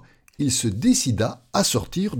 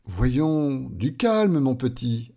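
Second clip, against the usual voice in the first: gentle reassurance; slower than usual. Acted. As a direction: soothe a frightened little one. Kind man soothes the coward. (ton rassurant et bienveillant)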